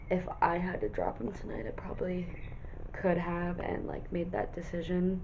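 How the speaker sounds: soft unvoiced whisper. Real, not acted. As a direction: whisper it like a secret. Whispered confession.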